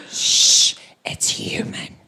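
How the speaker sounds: hushed confession after a shush; shush, then whisper the secret; secretive whisper. Acted. Confiding his secret other half.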